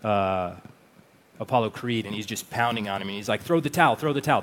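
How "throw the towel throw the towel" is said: imitating a trainer's shout from the corner, raised and higher; retold yell. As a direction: shout it like a cornerman begging to stop the fight. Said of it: "Duke ... when he's yelling at him".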